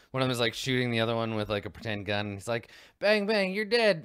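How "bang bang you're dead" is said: high, loud kid playing gunfight; play-fight shouting. Boy with pretend gun to brother, high mock shouting.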